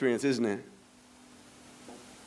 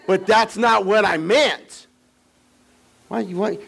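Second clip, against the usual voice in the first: defensive; 6 semitones higher, 3 dB louder than usual. Acted. Acted husband denying what he said.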